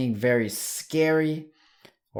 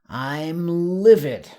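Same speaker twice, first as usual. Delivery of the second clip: louder with a touch of anger; livid; 4 semitones higher, 6 dB louder than usual. Shown as a demonstration. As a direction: sound a little angry. Teacher demos livid.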